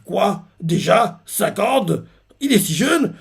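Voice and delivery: questions incrédules, de plus en plus haut; choqué imité. Retold or imitated. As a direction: jouer les soldats sidérés. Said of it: "les choqués font". (étonnement incrédule imité, voix qui monte)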